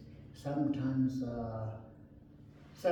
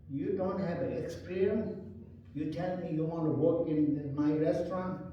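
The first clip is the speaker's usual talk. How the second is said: higher, mock-annoyed boss; upset owner; 3 semitones higher than usual. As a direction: send him off, half-cross. Owner upset, sends him away.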